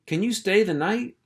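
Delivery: a thrilled little pup shouting; excited pup. Acted. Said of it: "cried out".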